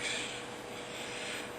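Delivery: soft, voiceless panicky breath noise; hushed mock panic sound; freaking-out breathing. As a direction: act out quietly freaking out with breath alone. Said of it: "freaking out".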